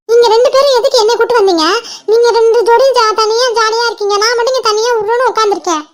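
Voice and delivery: mildly angry, hurt protest; sulky anger. Acted. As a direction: scold them for leaving you out. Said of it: "அதான் கோவமா?".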